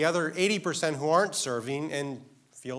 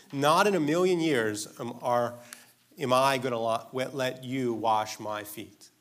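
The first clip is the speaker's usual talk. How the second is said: louder, insistent, slowing down on wash my feet; emphatic refusal; 4 dB louder than usual. Shown as a demonstration. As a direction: hammer home Peter's flat refusal. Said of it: "a Greek idiom".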